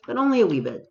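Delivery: high, sing-song "only a wee bit"; mock quaint phrasing. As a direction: lift "only" high then let "wee bit" fall playfully. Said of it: "No one talks like this".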